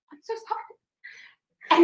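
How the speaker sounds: slow breathy whisper; whispered sorry. Retold or imitated. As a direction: whisper it, mortified. Embarrassed whispered apology.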